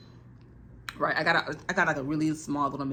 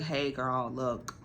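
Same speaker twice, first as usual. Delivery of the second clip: softer, measured talking-to; softer voice, confronting the roommate calmly; calm quiet confrontation; 2 semitones lower, 6 dB quieter than usual. Retold or imitated. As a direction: set the boundary gently but firmly. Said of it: "And I was just like".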